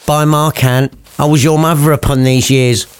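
lightly voiced common mum; a hint of a brassy mother; mum's voice. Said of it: "the mum ends up talking like that".

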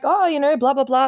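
chirpy date-night chatter, acted out; super friendly. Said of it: "being super friendly and accommodating and bubbly".

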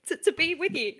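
loud, breathless, gushing fan; hammed-up starstruck gush. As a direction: fawn over the star, tripping on words. Starstruck fan meeting her idol.

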